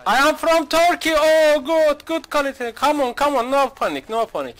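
high, loud, exaggerated cheery English; put-on friendly stranger. Streamer greeting wary players in game, hammed-up cheery voice. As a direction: overplay a goofy friendly tourist.

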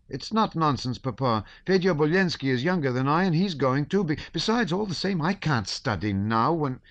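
put-on high, shrill boy protesting; insist, voice cracking; pleading boy. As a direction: son arguing to go to war, high and insistent.

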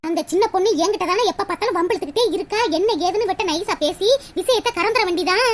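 low-pitched plotting to herself; scheming aside. Acted. Scheming aside behind friend's back.

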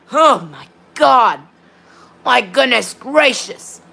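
slow, drawn-out exasperation; real frustration, word by slow word; exasperated. Real, not acted. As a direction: stretch the words out, fed up. Frustrated by repeated disconnections.

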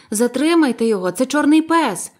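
high, loud urgent cry; alarmed shout. A narrator's reading. Boy warns the tavern about the pirate, urgent loud cry. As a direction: raise the alarm, stress on "чорний". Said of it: "закричав я".

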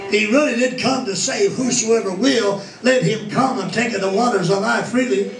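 steady sermon voice, rising on the promises; preaching. Acted. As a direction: preach it out to the congregation. Preaching on the Messiah.

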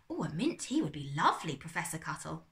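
polite. Acted. Bertolt politely accepting tea from the professor. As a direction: accept the offer very courteously. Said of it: "Bertolt said politely".

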